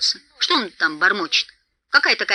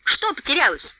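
higher questioning call; raised-voice query; 6 semitones higher than usual. A narrator's reading. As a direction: call the question across the dark. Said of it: "окликнул его Бильбо".

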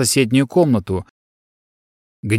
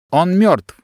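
мёртв pressed, higher pitch; insistent repeat; 6 semitones higher than usual. Acted. Secretary insists to the son, higher insistent repeat. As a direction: hammer home that he's dead. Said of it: "ещё раз повторил электронный секретарь".

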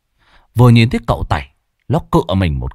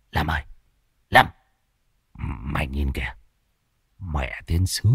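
much softer, lower secretive murmur; hushed aside; 6 semitones lower, 7 dB quieter than usual. Acted. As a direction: nudge your mate and whisper-talk. Huých Lâm Sẹo, nói thầm. (thì thầm nhỏ với Lâm)

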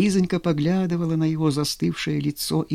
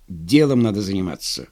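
lecturing; 6 semitones lower than usual. A narrator's reading. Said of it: "назидательно сказал Иван".

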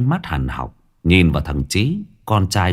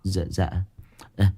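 stammering. Acted. Scared underling answers the boss about the tattoo, stammering. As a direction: stumble over every word in fear. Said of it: "một lúc sau lắp bắp".

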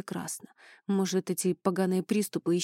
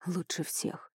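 soft, calm assurance; reassuring; 8 dB quieter, slower than usual. A narrator's reading. Eli calms his worried wife, reassuring. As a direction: soothe her softly. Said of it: "заверил он".

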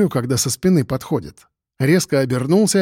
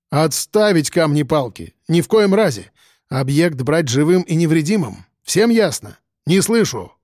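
commanding shout. Acted. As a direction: bark orders like a drill sergeant. Commanding drunks.

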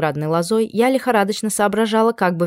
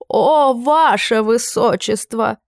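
drawn-out, hand-on-heart gush, higher and slower; exclaiming, slower and higher; 4 semitones higher, much slower than usual. A narrator's reading. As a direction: stretch out the "О" even more. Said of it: "Герцог перехватил сердце". (ещё более растянутое, восторженное «О, ваше высочество!»)

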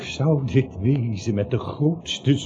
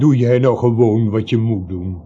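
boos; 4 semitones lower, 6 dB louder than usual. Acted. Ruzie op straat.

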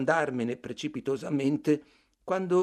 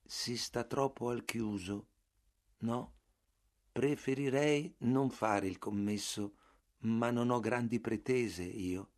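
sommesso; 5 dB quieter than usual. Acted. Bartleby risponde piano e lento.

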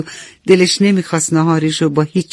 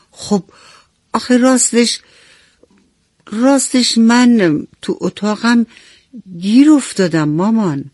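put-on higher, hesitant, sheepish little boy; boy confessing he is stuck in his room; sad child; 5 semitones higher than usual. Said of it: "پرهام با ناراحتی گفت". (با ناراحتی و مکث، صدای بچه)

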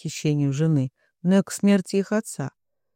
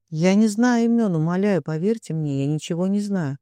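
whimpering plea. Acted. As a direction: beg like a wounded animal. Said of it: "проскулил он, как раненый зверь". (жалобно скулит)

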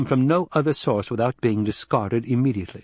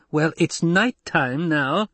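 higher, drawn-out reasonable coaxing; 6 semitones higher, slower than usual. A narrator's reading. Doctor soothing a drunk soldier, reasonably. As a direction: humour a drunk man patiently. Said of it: "He spoke reasonably".

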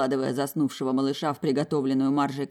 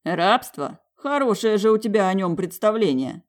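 scoffing; 5 semitones higher, 5 dB louder than usual. A narrator's reading. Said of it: "фыркнул я".

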